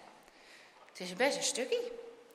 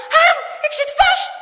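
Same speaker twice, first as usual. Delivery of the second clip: high, very loud cry for help; frantic, shrieked alarm; panicked scream; 15 dB louder than usual. A narrator's reading. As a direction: yell to your friend, trapped. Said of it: "gilt hij".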